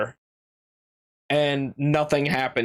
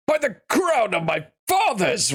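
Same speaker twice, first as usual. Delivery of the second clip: pitched-up regal king voice; 5 semitones higher than usual. Acted. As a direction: roar it as the king. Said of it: "That was supposed to be the king".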